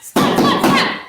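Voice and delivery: very high, loud playful splats; loud excited splats. Acted. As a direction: shout the splats with glee. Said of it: "That was so loud".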